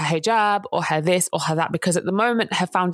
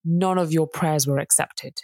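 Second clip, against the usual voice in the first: cold judgement; 3 semitones lower than usual. Retold or imitated. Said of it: "comes unprovoked and says to her".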